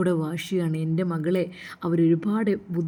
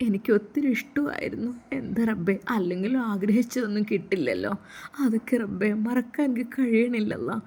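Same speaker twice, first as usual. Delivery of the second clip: heartbroken prayer; 3 semitones higher than usual. Acted. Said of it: "ഹൃദയം പൊട്ടി ദുആ ചെയ്യാറുണ്ടായിരുന്നു".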